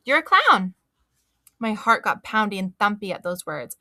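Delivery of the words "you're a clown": high, loud, proud reveal; beaming announcement. A narrator's reading. Mother showing child her clown look, happy proud reveal. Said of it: "she beamed real happy".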